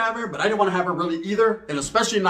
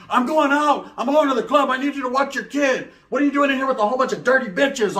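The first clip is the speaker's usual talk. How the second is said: voicing the baby mama; 7 semitones higher than usual. Baby mama voiced in story.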